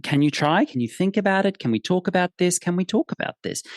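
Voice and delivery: high, pleading lilt; coaxing question. Retold or imitated. Coaxing a reluctant horse, retold.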